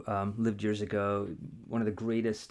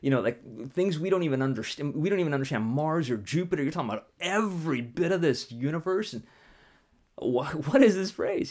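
amused disbelief; 4 semitones higher than usual. Retold or imitated. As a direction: scoff with a laugh, what do you mean. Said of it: "and this guy started laughing".

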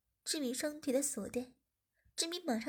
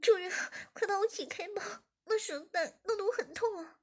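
higher voice, lightly calm request; calm woman; 7 semitones higher, 5 dB louder than usual. A narrator's reading. Zhiming calmly asks her master to untie her. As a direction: ask plainly to be untied. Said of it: "冷静地说".

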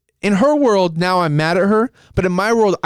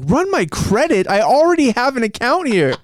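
retold indignant protest; 5 semitones higher than usual. Customer protesting a credit check to the operator, retold indignantly. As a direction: push back in disbelief, pitched up.

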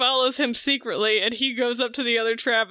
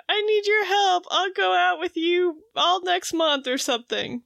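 high-pitched retold plea; mock pleading; 6 semitones higher than usual. Veronica begging Archie for help, high mock pleading. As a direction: beg in a higher, put-on voice.

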